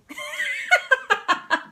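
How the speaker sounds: a sudden squealing laugh, well above her voice; real high giggle at her own story; high burst of laughter. Real, not acted. Laughing at her dad's habit.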